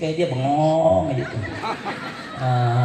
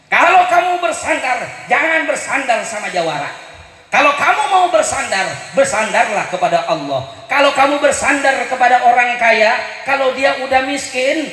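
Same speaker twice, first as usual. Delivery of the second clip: impassioned quoting; 6 semitones higher, 3 dB louder than usual. Retold or imitated. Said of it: "kata almarhum Kiai Haji Jainuddin".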